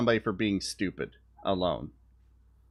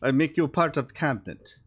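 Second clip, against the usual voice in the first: a hint of a Russian accent as Putin, slightly higher; lightly put-on Russian accent, slowing on okay; mock Russian accent, half-hearted; vague Russian accent; 6 semitones higher than usual. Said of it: "I don't know what accent that is".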